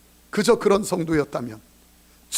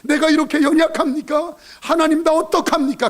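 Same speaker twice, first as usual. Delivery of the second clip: building repentant prayer; 4 semitones higher than usual. Retold or imitated. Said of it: "그때 그도 변화시켜".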